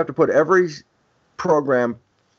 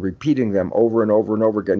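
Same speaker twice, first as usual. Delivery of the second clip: fast rattled repetition; 4 semitones lower, faster than usual. Acted. Stresses endless repetition.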